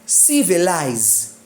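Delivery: "Civilize" slowly, CI prominent, falling after; stress on ci. Shown as a demonstration. Teacher shows stress stays with suffix, "Civilize" stressed on ci. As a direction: say "Civilize" leaning on the first syllable, ci. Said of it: "the stress remain on C".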